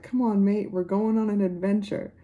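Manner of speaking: lightly imitated Australian accent; light mock-Australian voice. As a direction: quote it with a touch of an Australian accent. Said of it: "like, an Australian accent".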